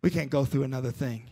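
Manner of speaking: low, soft, worn-down surrender; acted weary resignation; sick and tired. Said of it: "Pharaoh is sick and tired of it".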